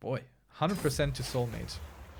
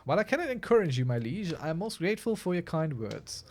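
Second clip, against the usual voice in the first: fast, higher read of a polite letter; reading the wife's reply; 4 semitones higher, faster than usual. Acted. Streamer reads his wife's letter in a lightly voiced courtly tone. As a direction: rattle off the lady's courtly reply.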